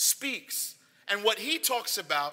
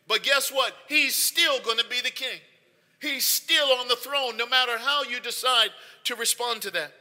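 raised, emphatic voice of the Lord; God declaring authority; 4 semitones higher, 4 dB louder than usual. Acted. God telling rebels the king is already enthroned, emphatically. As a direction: declare it with settled, forceful certainty. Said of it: "what God is saying is".

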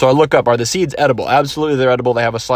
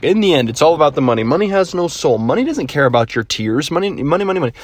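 money-obsessed investor voice; hammy greedy tycoon; Kevin O'Leary impression; 3 semitones higher than usual. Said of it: "He's always like".

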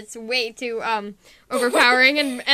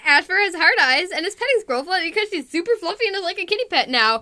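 ordinary talk, nothing marked

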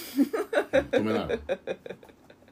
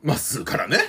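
whispering; 4 semitones lower than usual. Acted. Teasing whispered echo of partner.

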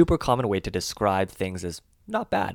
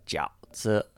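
whispered demo; 3 dB quieter than usual. Shown as a demonstration. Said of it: "is in the third tone".

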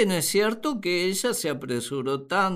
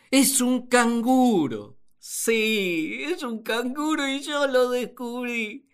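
triumphant discovery; 4 semitones higher than usual. Acted. Adam proudly naming the creature.

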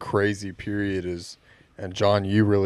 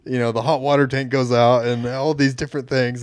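mock anxious fret; 5 semitones higher, 7 dB louder than usual. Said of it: "being the same way of".

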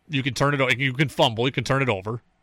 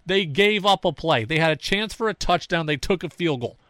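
high-pitched, worked-up disbelief, slowing on the last two lines; indignant retort; 4 semitones higher than usual. Retold or imitated. Host arguing with Flutie, worked up and higher. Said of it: "And I go".

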